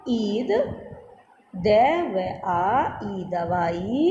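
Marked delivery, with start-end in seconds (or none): 1.5-4.0 each sound laid out slowly; slow spelling out. Shown as a demonstration. Teacher slowly sounding out letters for children.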